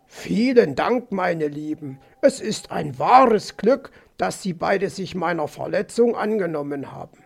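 measured, courteous thanks; lightly voiced gracious fox. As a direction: thank them as a gallant fox. (leicht gespielter, galanter Fuchs)

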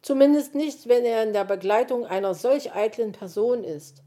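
loud, exasperated fox complaint; grumbling fox. A narrator's reading. Fox laments the vain magpie, loudly grumbling. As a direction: grumble emphatically as a fed-up fox.

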